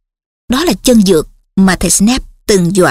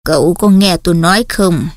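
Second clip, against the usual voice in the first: calm; 4 semitones lower than usual. Acted. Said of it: "Cụ điềm đạm hỏi".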